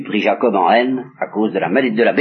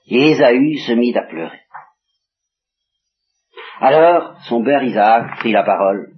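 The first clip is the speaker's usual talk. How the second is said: usual speaking voice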